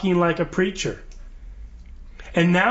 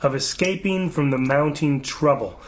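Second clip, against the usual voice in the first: slow, measured scripture-style reading; solemn read-aloud; slower than usual. Acted. Host reads governor's prayer website to co-hosts, slow proclamation.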